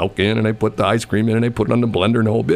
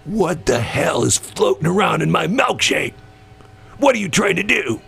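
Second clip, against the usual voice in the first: pitched up, mock outraged complaint; angry customer yelling; 8 semitones higher than usual. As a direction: play the furious customer demanding answers. Angry customer confronts the server.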